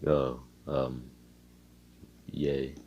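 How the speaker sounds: low, soft, emotionless attempt at cheer; monotone. Told to liven up, he answers in a monotone. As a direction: fake a yay without any feeling. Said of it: "why are you so monotone?".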